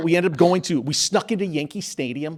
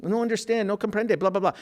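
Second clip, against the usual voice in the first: higher, halting non-native English, lightly done; broken English; 6 semitones higher than usual. Retold or imitated. Cleaning lady pretending not to understand the intruders, in broken English. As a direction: play a cleaning lady fumbling English, mock confused. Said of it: "she didn't even speak English".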